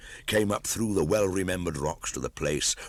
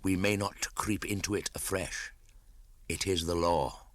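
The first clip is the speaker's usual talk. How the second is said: Kaa the python; 3 semitones higher, 4 dB quieter than usual. A narrator's reading. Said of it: "said Kaa".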